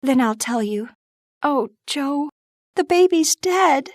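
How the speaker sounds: put-on high, gentle young girl's voice; Beth's voice. Narrator voices Beth.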